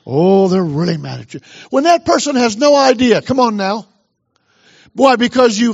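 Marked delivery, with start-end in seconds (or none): 0.0-1.4 devil's sly voice. Acted. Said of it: "The devil goes".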